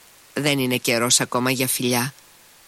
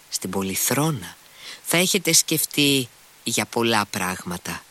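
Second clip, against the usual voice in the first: ordinary delivery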